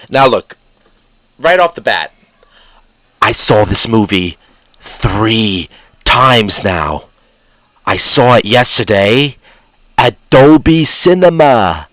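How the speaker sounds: light put-on English accent. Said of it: "excuse me for the English accent".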